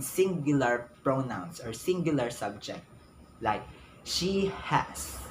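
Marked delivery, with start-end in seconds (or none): 4.0-5.2 "she has" lifted high as the example; teacher modeling the correct phrase. Shown as a demonstration. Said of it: "It should be she has".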